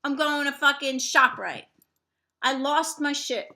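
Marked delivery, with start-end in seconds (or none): 0.0-1.6 fed-up outburst. Retold or imitated. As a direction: storm off announcing it. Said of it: "I was like".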